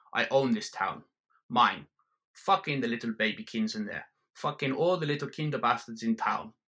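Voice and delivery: a hint of a German accent, ranting; lightly voiced German bar owner. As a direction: swagger through the rant.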